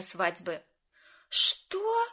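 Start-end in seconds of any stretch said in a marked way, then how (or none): 1.3-2.1 sudden high startled cry; surprised exclaim. A narrator's reading. Maya exclaims in shock at the plate plan. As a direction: blurt it out in shock. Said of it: "воскликнула Майя".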